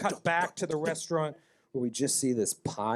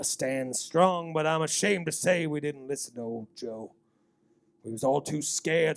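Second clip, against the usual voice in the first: a lightly voiced old local, spinning town gossip; folksy old townsman. Game master to players, lightly voiced folksy old man. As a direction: tell it like a nervous old local.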